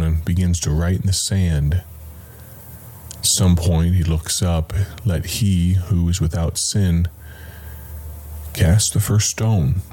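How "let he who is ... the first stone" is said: offhanded remark. Shown as a demonstration. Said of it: "an offhanded remark".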